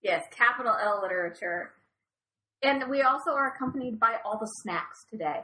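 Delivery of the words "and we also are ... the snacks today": talking while crunching chips; words between bites of chips. Real, not acted. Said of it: "apologies for any crunching".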